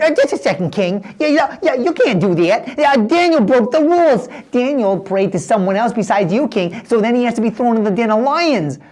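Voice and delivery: a hint of a sly schemer; objecting wise man. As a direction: argue the rules with the king.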